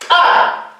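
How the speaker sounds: "pa" with a sharp popped p; reinforced ejective consonant. Shown as a demonstration. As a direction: pop the p, then release the "a" of "pa". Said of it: "Consonantes reforzadas". (consonante reforzada, "pa" con golpe glotal)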